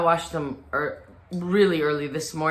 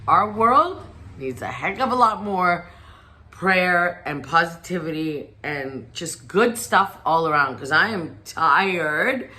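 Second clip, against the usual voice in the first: preach. Real, not acted. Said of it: "I'm gonna preach".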